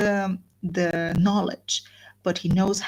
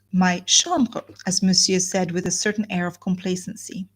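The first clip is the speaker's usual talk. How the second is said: measured literary narration with lively emphasis; storyteller reading to listeners; novel read aloud. A narrator's reading.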